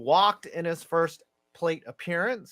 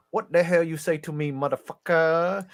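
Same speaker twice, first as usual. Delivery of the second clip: put-on Vietnamese accent. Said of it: "does the best Vietnamese".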